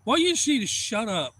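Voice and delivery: high, loud mock scolding; imitated angry stranger. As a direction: play the annoyed man hollering over. Retold stranger scolding the anglers.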